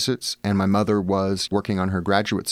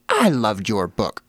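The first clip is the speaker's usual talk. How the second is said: slow, stretched mock admiration; a hint of an effusive older lady; lightly voiced gushing fan; 3 dB louder, slower than usual. Older woman praises author's book, slow mock gushing.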